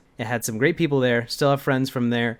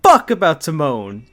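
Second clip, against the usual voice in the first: laughing repeat; 5 semitones higher, 8 dB louder than usual. Real, not acted. Repeats quote while laughing.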